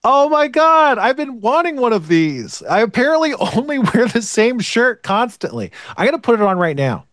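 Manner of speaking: high, thrilled and gushing; excited. Real, not acted. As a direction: gush over a long-wanted gift. Delighted by the new shirt.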